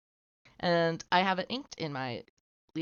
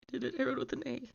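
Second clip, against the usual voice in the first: excited; 9 semitones higher, 3 dB quieter, much faster than usual. Real, not acted. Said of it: "I did it, guys".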